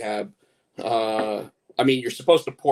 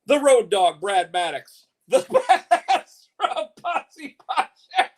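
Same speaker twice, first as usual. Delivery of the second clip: ringmaster; 9 semitones higher, slower than usual. Acted. Announcing the team names.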